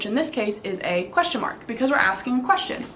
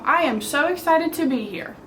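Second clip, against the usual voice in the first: excited reading; 4 semitones higher than usual. Shown as a demonstration. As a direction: read it a bit higher, with a touch of excitement. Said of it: "an exclamation mark shows that we are excited".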